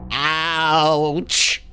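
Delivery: lightly imitated talking alien toy; drawn-out words like a toy's voice box. Imitating the smacked toy from Ashen's video, talking toy voice. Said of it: "spoke like E T".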